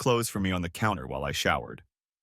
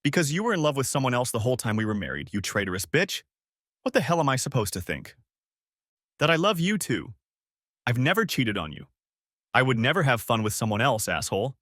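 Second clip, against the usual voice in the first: exploded; 2 semitones higher than usual. Acted. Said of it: "I exploded at her".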